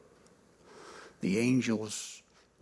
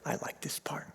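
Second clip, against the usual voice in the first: whispered aside; 15 dB quieter, faster than usual. Real, not acted. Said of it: "whispered aside".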